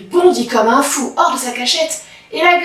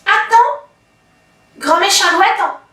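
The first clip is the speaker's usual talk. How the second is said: little rabbit; 5 semitones higher than usual. Acted. Rabbit voiced by narrator.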